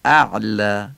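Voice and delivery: اعلا with a strong throat ayn after the hamza; thick ayn. Shown as a demonstration. Teacher demonstrating the ayn of اعلا to learners, thick ayn. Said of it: "و عینم غلیظ بگیم".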